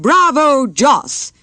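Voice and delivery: hearty call, pitched high; a fond father cheering across the room; mild cheer of bravo. Acted. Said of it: "his father called out".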